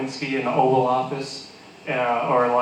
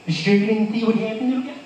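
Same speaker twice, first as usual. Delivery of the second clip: higher-pitched, needling voice to a witness; mock prosecutor grilling; 7 semitones higher, faster than usual. Higher mock prosecutor badgering a boy. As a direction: prosecutor cross-examining the blind son. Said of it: "It was like".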